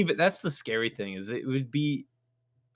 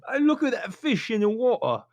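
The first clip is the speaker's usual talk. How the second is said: higher, mock-curious sailor voice; puzzled sailor; 9 semitones higher than usual. Sailor on deck eyeing an incoming torpedo, mock puzzled. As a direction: wonder aloud at the odd bubble trail.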